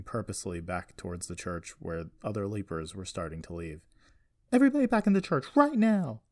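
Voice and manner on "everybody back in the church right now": high, loud scream at a crowd; screamed order. A narrator's reading. Jessie ordering leapers back into the church, screaming. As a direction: scream the command, voice way up. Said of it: "she screamed".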